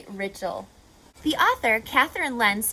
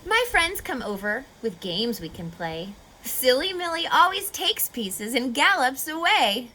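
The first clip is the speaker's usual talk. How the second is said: lively storybook read-aloud; reading to children. Acted. Teacher reading a rhyming story to kids, lively. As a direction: read the rhymes to a class, bouncy and clear.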